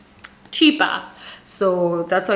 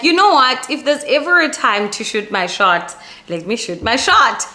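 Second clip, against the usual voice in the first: hyped up; 4 semitones higher, 4 dB louder than usual. Retold or imitated. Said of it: "I'm just like".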